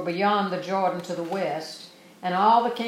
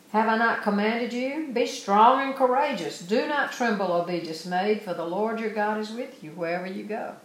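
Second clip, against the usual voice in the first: emphatic preaching; 3 semitones higher than usual. Shown as a demonstration. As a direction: proclaim it like a charge to the people. Verse nine read again, preached.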